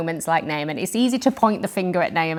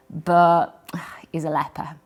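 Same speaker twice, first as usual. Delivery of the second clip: sighed, slow and whispery; hushed reveal; 2 semitones lower than usual. Acted. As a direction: let the bad news out on a sigh. Voicing the label that shadows him.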